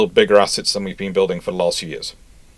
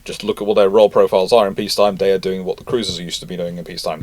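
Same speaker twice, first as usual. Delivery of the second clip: usual speaking voice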